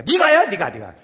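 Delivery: a hint of a parent passing it off; mock parent pushing. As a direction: push the job onto the child, lightly acted. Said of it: "애기들한테 하라고 그럽니까?". (아이에게 떠넘기는 부모 흉내)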